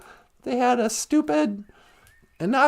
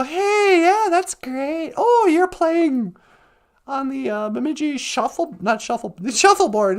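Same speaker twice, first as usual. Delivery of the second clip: fake enthusiasm. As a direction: pretend to be impressed. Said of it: "shut your mouth and go".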